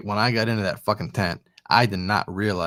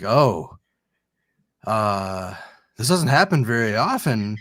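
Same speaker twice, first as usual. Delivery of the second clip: wide-eyed operator; 3 semitones higher, 4 dB louder than usual. Retold or imitated. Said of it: "wide-eyed and kinda like".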